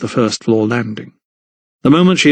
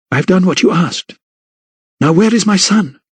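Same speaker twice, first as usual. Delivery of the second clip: firm, raised insistence; forceful demand; 7 semitones higher than usual. Acted. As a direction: demand it with new strength. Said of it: "renewed strength in her voice".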